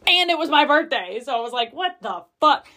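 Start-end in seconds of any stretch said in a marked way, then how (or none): 1.7-2.7 shocked and indignant in one burst; outraged disbelief. Retold or imitated. Mother retelling her reaction to the birthday-weekend trip in shocked outrage.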